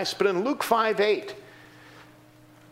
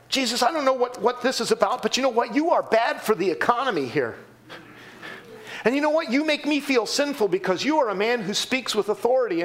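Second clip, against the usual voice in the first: higher, aggrieved complaint to Jesus; voiced townspeople complaint; 4 semitones higher, faster than usual. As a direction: grumble at him like a local losing trade.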